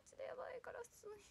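whispering in real nerves; panicked whisper. Real, not acted. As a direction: squeak it out nervously.

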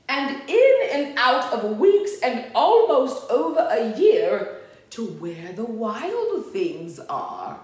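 lively, sing-out story reading; storybook narration. A narrator's reading. Reader tells children of Max's room, storybook narration. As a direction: read it to small children, animated.

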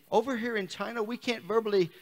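put-on loose, half-hearted Australian accent; slightly lifted mock Australian voice; attempted Australian accent. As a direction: have a rough go at an Australian accent. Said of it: "that's my Australian".

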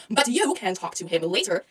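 soft, low dismissal; hushed, held-in irritation; restrained brush-off. Acted. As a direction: quietly send a rival away. First, restrained brush-off of rival.

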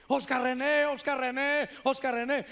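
mock yelling of a name, repeated; calling out. Brother names his unborn child, calling out. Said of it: "empezó a gritarle".

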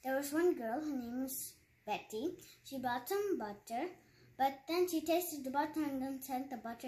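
story type. Shown as a demonstration. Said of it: "if you want to say this in a story type".

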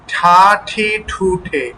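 ঠা ঠি ঠু ঠে with a clear breathy puff on each ঠ; aspirated ṭh syllables. Shown as a demonstration. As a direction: spell out ঠা ঠি ঠু ঠে, aspirating every ঠ. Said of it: "এই দুটোর পার্থক্য যেন স্পষ্টভাবে বোঝা যায়".

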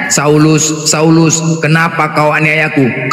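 voice of God. Acted. Acting out Jesus' voice to Saul.

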